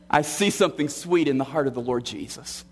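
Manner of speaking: ordinary talk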